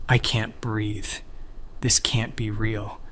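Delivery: whisper. A narrator's reading. Shocked narrator whispers to herself.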